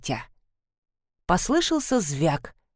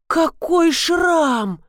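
higher, louder and very slow shocked shout; shocked cry; 9 semitones higher, 3 dB louder, much slower than usual. A narrator's reading. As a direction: cry out in horror at the scar. Sees scar, backs away.

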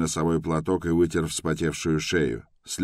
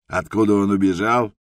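louder, grandly theatrical question on откуда; theatrical pathos; 3 semitones higher, 5 dB louder than usual. A narrator's reading. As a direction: declaim it like a ham actor. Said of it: "с театральным пафосом вопросил охранник".

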